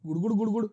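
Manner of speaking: quick repeated imitation of gurgling; gurgling sound. Shown as a demonstration. Teacher demonstrating a gurgling sound to students, gurgling imitation. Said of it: "gargling एक आवाज है".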